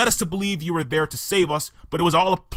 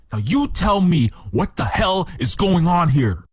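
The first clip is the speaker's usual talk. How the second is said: louder, stressing you, demanding the truth; angry demand; 4 dB louder than usual. Acted. Betrayed detective demands answers from his employer, angry. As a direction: force her to come clean.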